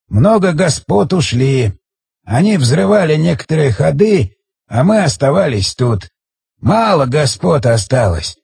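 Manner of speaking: a hint of an aged storyteller; ancient village elder. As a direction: explain haltingly, drawing words out. Narrator voices the ancient elder.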